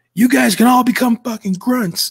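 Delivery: very high-pitched, barking, shouted yell. Recounting standing and waiting, retelling the TI yelling at the group. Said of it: "He'd start yelling and pointing".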